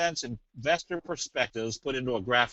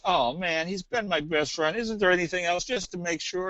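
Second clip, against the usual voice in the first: lightly acted pleading, pitched a bit up; mock pleading; 4 semitones higher than usual. Pet owner asking vet for one more check, mock pleading. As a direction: beg with mild mock disappointment.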